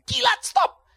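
high, loud cut-off command; a hint of the emperor. Emperor cutting off Paul's defence, high loud command. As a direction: stop him like an irritated ruler. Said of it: "Sampai si kaisar bilang".

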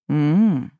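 drawn-out closed-mouth hum; a knowing, teasing hum; mock musing hum. A narrator's reading. Etier teasing the heroine with a lingering hum. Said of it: "промычал Этьер".

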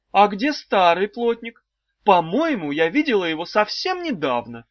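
high, sing-song wife voice; a high cooing old wife; wife's high voice. A narrator's reading. Wife teasing the trapped children, high and cooing.

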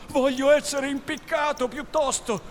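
loud, high-pitched defiance; defiant refusal. Acted. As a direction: refuse outright, raising the voice.

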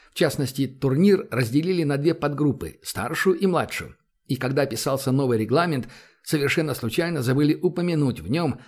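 brisk sports play-by-play; hockey commentary. Acted. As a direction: call the game like a TV commentator. Hockey commentator calling the match.

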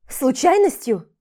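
loud, outraged echo of the word; a woman exclaiming in outrage; indignant exclamation. Acted. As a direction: fling the word back in disbelief. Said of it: "воскликнула я".

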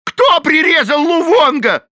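very high, loud slow shriek; Shaky Phil howls the question; howled. A narrator's reading. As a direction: wail it in outrage. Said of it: "завопил Шаки Фил".

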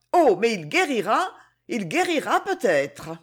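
réplique vive et pleine d'espoir, sans être forte; s'empresser de rassurer, avec élan; vivement. Acted. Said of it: "répliqua vivement". (Annonciade répond vite à Run pour lui redonner espoir)

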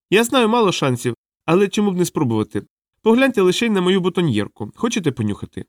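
high-pitched clown trying a gag; small clown, timidly hopeful; hopeful little clown. Acted. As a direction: pitch it high and coax them.

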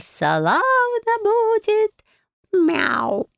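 a wise fairy-tale cat telling, lightly sing-song; the magic cat chants its riddle in a lilting tale-telling voice. Acted. Cat Bayun explains the trial to Marya, lilting. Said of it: "вдруг нараспев поведал мне".

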